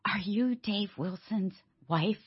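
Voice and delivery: an eager fan greeting the speaker's wife; gushing lady. Retold or imitated.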